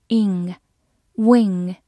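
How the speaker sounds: "ing，wing" ending on a back-of-the-mouth ng; "ing，wing" with a clear velar nasal ng. Shown as a demonstration. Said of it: "发的是后鼻音".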